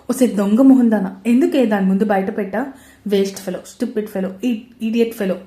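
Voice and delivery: loud exasperated scolding of a friend; angry scolding. Acted. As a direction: blow up at her for spilling the secret. Karthik scolds friend angrily. (కోపంగా గట్టిగా తిట్టడం)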